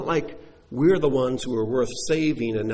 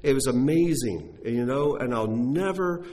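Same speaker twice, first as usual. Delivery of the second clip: raised, earnest voice full of gratitude; grateful rescued person; 4 semitones higher than usual. Retold or imitated. Preacher voicing a rescued man praising his rescuer, heartfelt. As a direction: gush gratefully about the stranger who saved you. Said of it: "because you can say".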